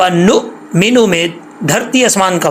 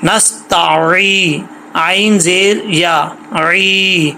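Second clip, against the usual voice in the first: slow spelling out; much slower than usual. Shown as a demonstration. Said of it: "spelling out the word".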